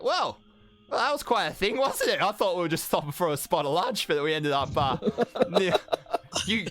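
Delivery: put-on high-pitched, amazed young adventurer voice; Kenna. Kenna recapping the demon fight to the party, high and amazed. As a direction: chatter high, a little stunned. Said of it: "she's like".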